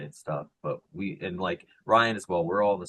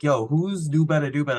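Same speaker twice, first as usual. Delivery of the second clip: mock-puzzled fan voice, higher and louder; clueless commenter; 8 semitones higher, 7 dB louder than usual. Commenter asking about the creator, higher imitating voice. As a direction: play the baffled commenter. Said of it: "be like".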